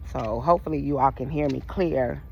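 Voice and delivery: talking while chewing gum. Real, not acted. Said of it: "I'm chewing gum because I'm walking".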